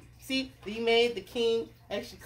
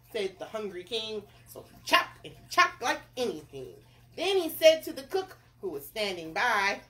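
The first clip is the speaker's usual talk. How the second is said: animated read-aloud narrator; story narration; 4 dB louder than usual. A narrator's reading. Narrator tells of the king fishing, story narration. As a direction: tell it with bouncy emphasis.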